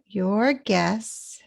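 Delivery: YOUR GUESS with a full final S; pronounced S's. Shown as a demonstration. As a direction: sound out the S's of GUESS clearly. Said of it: "We really pronounce the S's here".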